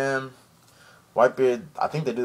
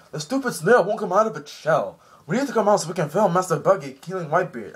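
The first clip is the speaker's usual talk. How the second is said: annoyed guards; 6 semitones higher, 3 dB louder than usual. Retold or imitated. Guards frustrated with snail.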